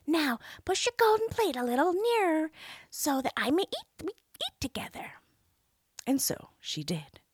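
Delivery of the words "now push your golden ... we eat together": high little frog voice; demanding frog. A narrator's reading. Frog asking the princess to share her plate, high voice. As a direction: ask it as the pushy frog.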